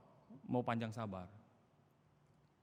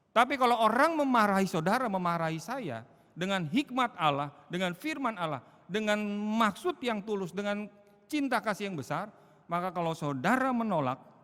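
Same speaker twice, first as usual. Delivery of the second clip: loud, high, impassioned sermon climax; preacher thundering with conviction; full-force preaching; 7 semitones higher, 8 dB louder than usual. Acted. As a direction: drive it home to the congregation.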